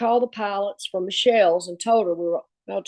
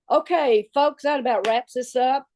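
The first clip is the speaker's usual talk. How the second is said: higher-pitched announcement to the room; brisk wrap-up; 4 semitones higher than usual. Retold or imitated. Recruiter hastily ending her presentation, brisk higher wrap-up. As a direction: call the meeting to a close. Retold abrupt end of presentation.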